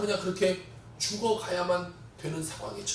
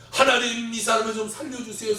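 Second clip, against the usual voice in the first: urgent prayer; 3 semitones higher than usual. Retold or imitated. Surgeon praying desperately.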